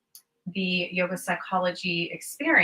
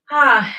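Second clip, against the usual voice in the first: loud, higher sighed "ah"; audible exhale; 5 semitones higher, 10 dB louder than usual. Real, not acted. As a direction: let out a big breath on an open "ah". Breathing out before a deep breath.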